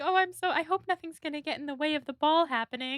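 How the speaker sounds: high, sweet eager gush; mock-innocent excited girl; high sugary imitation of Jane.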